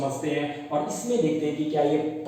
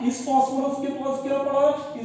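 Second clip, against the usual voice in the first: higher, pointed quizzing tone; raised question; 7 semitones higher than usual. Shown as a demonstration. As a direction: throw the question up at the class. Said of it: "repeated question, marked take".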